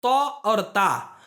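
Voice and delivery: slow, careful demo of तो and ता; teacher demo of Arabic letters. Shown as a demonstration. Teacher sounds out letters for the class, slow careful demo. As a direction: sound out तो then ता slowly for students. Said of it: "ऐसी गलती जो होती है".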